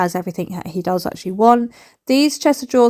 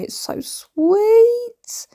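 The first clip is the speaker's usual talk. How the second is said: whispered; 13 semitones higher, much slower than usual. Real, not acted. Gushing over the purring cat.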